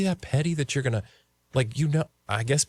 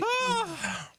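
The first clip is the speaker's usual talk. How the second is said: high sharp gasp from the sour; pained gasp; 7 dB quieter than usual. Real, not acted. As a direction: wince aloud at the sourness. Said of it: "I'm sweating".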